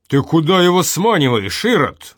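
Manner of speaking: put-on old man on the stove rebukes Vanya, indignant shout. A narrator's reading. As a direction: roar at him in outrage. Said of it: "возмутился на печи Семён Ульянович".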